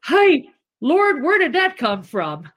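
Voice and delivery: high, loud amazed cry to the Lord; half-laughing wonder at herself; amazed exclamation. Retold or imitated. Asking the Lord where her outburst came from, high amazed cry.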